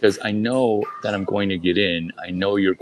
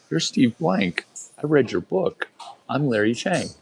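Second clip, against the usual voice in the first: higher eager fan gushing; 5 semitones higher than usual. Retold or imitated. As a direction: gush like a starstruck fan. Fan voice to author.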